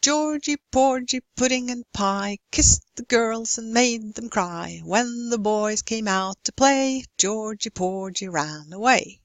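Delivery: nursery rhyme read with a clear beat; sing-song nursery rhyme rhythm; rhythmic stress. Shown as a demonstration. Teacher reading a nursery rhyme to show stress. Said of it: "here's the key".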